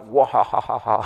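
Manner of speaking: mock "wah-ha-ha" baby bawling; imitated newborn noise. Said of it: "Ada yang lahir".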